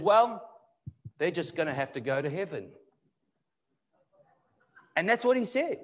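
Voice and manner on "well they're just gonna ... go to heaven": mildly dismissive, offhand sarcasm; understated retold sarcasm; sarcastic. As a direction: imitate a frustrated expert's dry sarcasm. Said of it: "he says it sarcastically".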